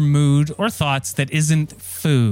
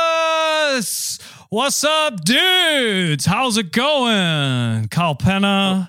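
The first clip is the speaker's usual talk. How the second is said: surfer dude voice; 3 semitones higher, slower than usual. Acted. Host plays surfer chef character.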